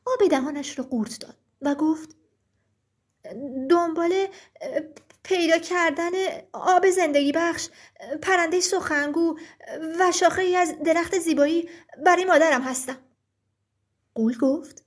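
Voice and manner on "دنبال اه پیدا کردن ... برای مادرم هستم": nervous, halting answer to a giant; trembling boy. Acted. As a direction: falter slightly, a little frightened.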